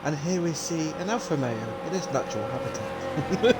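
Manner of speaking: hushed wildlife narrator; soft, reverent documentary narration; nature documentary. Pretend. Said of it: "That is horrible".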